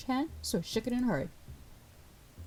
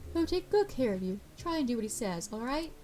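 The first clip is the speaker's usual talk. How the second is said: lifted, higher-pitched character voice; reassuring boss; 5 semitones higher than usual. Acted. Boss hands new hire to the bartender, reassuring.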